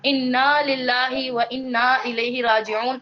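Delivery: slow, drawn-out recitation of the prayer; retold involuntary recitation. Teacher retelling her reaction to a pupil's misreading, slow recitation. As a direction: draw out each phrase as you recall reciting it. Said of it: "میرے منہ سے بے اختیار نکلا".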